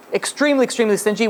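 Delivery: "Extremely" jumps up high, then "extremely stingy" rising; emphatic extremely. Real, not acted. Preacher stressing to his listeners how stingy the mohel was. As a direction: pile the stress onto "extremely" to hammer it home.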